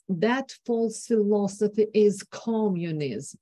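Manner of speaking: "communism" with a hard aspirated k, mocking; mocking attack. Lecturer imitating Truman's mocking attack on communism. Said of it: "aspiration on k ... mocking temper of voice".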